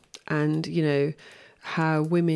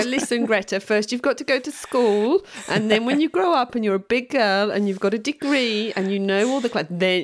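put-on higher, lightly patronizing talk to a child; higher-pitched mock telling-off; mock advice to Greta; 4 semitones higher than usual. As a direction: gently lecture a little girl, tongue in cheek. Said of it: "we could tell her, we go".

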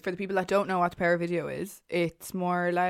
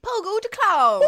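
high and loud, stretched out slow; dramatic high call; 14 semitones higher, 8 dB louder, slower than usual. Acted. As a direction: announce it like a creepy reveal. Dramatic naming of killer.

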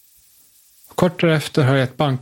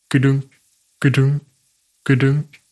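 heartbeat. Retold or imitated. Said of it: "mitt hjärtas bultande".

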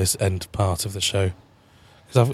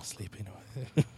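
voice giving out; 16 dB quieter than usual. Pretend. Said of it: "You're gonna fade away now".

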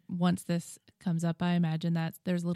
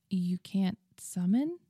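slow, unsure asking; hesitant question. Acted. Mal asks Alina hesitantly, slow and unsure. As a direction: ask it carefully, half afraid of the answer. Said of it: "he asked hesitantly".

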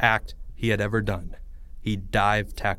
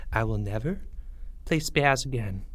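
solemn refusal; 6 dB quieter than usual. Acted. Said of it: "something in his voice that made the others pause".

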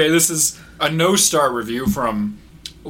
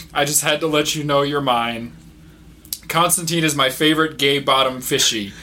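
reading through laughter; 4 semitones higher than usual. Retold or imitated. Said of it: "I'm just gonna read you this review".

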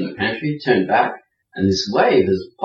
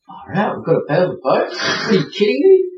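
alarmed protest; 5 semitones higher than usual. Retold or imitated. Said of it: "I said".

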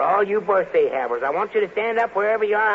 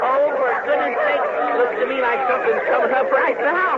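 pitched-up exclaiming, as if startled; mock surprise; 5 semitones higher than usual. Host pretending something is coming, mock surprised. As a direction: play startled for the kids.

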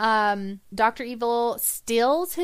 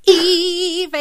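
laughing; 7 semitones higher, 6 dB louder than usual. Pretend. Laughing while mimicking the song.

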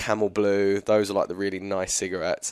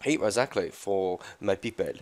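put-on Israeli accent; 3 dB quieter than usual. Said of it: "it's an Israel accent, Israeli accent".

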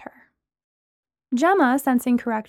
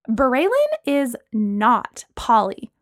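disgusted; much slower than usual. Acted. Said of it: "Lana said disgustedly".

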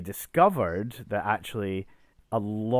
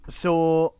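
panto throat clear; 7 semitones higher, 8 dB louder than usual. Acted. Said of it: "Very panto there we went".

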